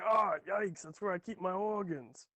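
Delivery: 1 mock kobold yelp. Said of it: "and he's like".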